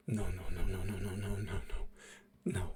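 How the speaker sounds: low, soft, unbroken murmur; muttered denial. Acted. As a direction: mutter it over and over to yourself. Stunned man repeating himself, tuning out.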